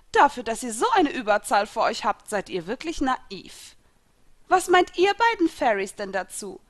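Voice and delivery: taunting. A narrator's reading. Enemy taunts the heroes in story.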